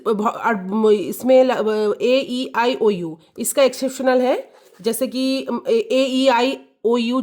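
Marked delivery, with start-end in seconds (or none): 2.0-3.2 slow spelled vowels. Shown as a demonstration. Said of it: "अब vowels".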